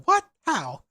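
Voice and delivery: loud incredulous outburst; mock disbelief. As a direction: throw it out, shocked and loud. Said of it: "I was gonna go".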